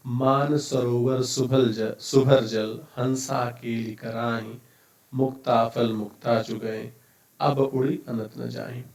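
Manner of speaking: slow, measured reading of a couplet; verse recitation. Acted. Teacher reads the first doha to the class, measured recitation. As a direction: recite line by line, pausing after each phrase.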